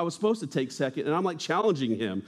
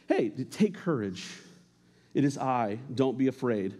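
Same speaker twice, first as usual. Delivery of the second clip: reassuring; 3 semitones lower than usual. Acted. Jesus reassuring disciples.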